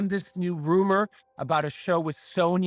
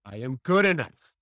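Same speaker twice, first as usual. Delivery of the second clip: firm repeated affirmation; with belief; 3 semitones lower than usual. Shown as a demonstration. Host repeats after Countess with conviction. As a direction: echo I am good enough with conviction. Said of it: "say it with total belief in yourself".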